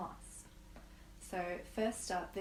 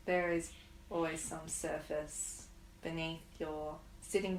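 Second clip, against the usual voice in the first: guided meditation. Acted. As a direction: ease them into stillness, unhurried. Leads a guided grief meditation.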